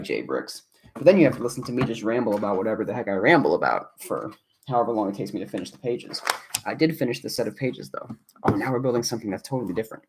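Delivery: ordinary talk, nothing marked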